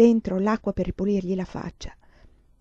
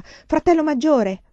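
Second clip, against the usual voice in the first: high, slow call into the dark; a slow, raised cry across the room; 8 semitones higher, 7 dB louder, slower than usual. A narrator's reading. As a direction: call out to him, hoping. Calls out to returning husband.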